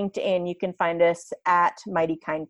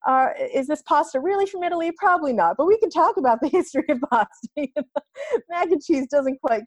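put-on higher, louder, playful teaching to the kids; playful explaining to kids; 8 semitones higher, 4 dB louder than usual. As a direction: perk up and quiz the kids about pasta. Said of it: "I was like".

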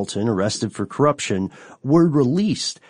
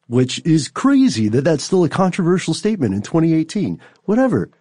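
exasperated rant; 10 semitones higher, 4 dB louder than usual. Real, not acted. Ranting about monarchy.

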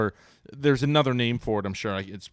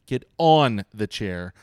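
slow exasperated order; 7 dB louder, slower than usual. Retold or imitated. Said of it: "And I'm like".

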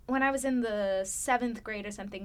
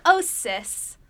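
put-on South African accent; 7 semitones higher, 8 dB louder than usual. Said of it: "weird South African phrases".

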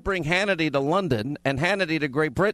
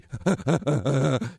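giddy laugh; 3 semitones lower than usual. Retold or imitated. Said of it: "the giddy".

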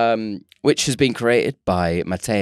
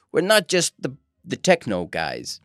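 lightly put-on Berlin accent; 6 semitones higher than usual. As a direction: play it with a slight Berlin accent. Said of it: "That's my Berlin accent".

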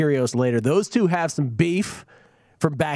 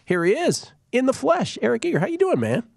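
excited intro; 11 semitones higher than usual. Real, not acted. Hyping guest introduction.

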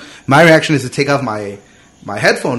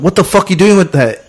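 alarmed cop; 7 semitones higher than usual. Retold or imitated. Cop alarmed at seeing knife.

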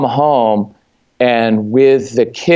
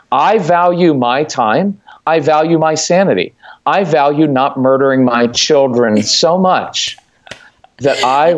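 confident statement. Retold or imitated. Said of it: "the confident statement is".

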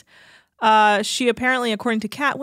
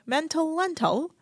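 bad British accent; 7 semitones higher, 4 dB quieter than usual. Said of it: "I can't do a British accent".

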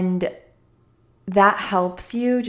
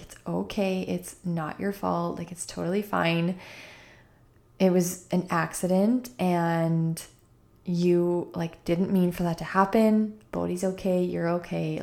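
soothing reassurance. Retold or imitated. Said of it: "talked slowly to her".

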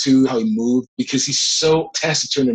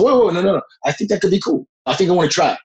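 higher-pitched retold objection; eager protest; 5 semitones higher, faster than usual. Actor retelling how he stopped his agent, eagerly protesting. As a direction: jump in to keep the idea alive, pitch up.

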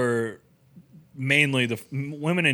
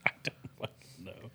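laughing breathless; 5 semitones lower, 17 dB quieter than usual. Real, not acted. Laughing, near inaudible.

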